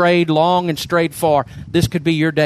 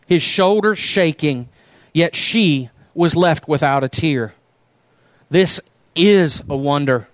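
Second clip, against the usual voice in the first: the Rag Man read aloud to the congregation; unhurried storyteller's voice; story reading. Acted. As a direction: tell it like a parable from the pulpit. Preacher reads story aloud.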